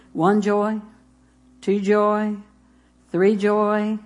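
ordinary talk, nothing marked

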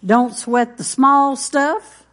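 emphatic slow point. Real, not acted. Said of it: "sermon point".

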